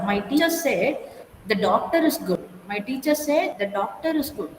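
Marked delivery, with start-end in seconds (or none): 1.5-2.5 doctor stressed, the rest let fall. Shown as a demonstration. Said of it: "stress on that particular word". 3.6-4.6 doctor weighted as the answer word; stress on DOCTOR. Shown as a demonstration. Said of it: "stress on that particular word".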